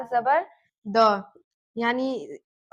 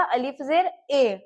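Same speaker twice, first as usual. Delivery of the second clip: slow spelling drill. Shown as a demonstration. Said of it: "इसको हम पढ़ते हैं अलिफ जेर".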